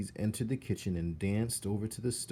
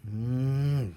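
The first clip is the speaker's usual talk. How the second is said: louder suspicious cook's hum; suspicious hmm; 4 semitones higher, 6 dB louder than usual. Acted. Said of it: "she said".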